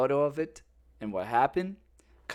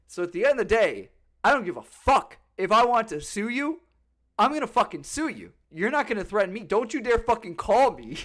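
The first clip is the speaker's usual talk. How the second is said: louder, heated telling-off; angry retort; 4 semitones higher, 4 dB louder than usual. Retold or imitated. Telling the threatening attorney off, heated and loud. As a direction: push back hard, voice up.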